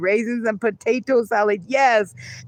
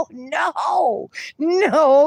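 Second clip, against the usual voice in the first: shocked no; 4 semitones higher than usual. Real, not acted. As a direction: recoil at the thought. Reacts to raisins in Alfredo.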